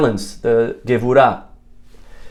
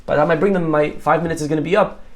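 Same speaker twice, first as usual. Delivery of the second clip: higher, rushed mock panic about the samples; 5 semitones higher, faster than usual. Manny panicking to Joseph about his samples, higher and hurried. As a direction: play the nervous guy fretting, fast and breathless. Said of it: "Now Manny started pa-, panicking again".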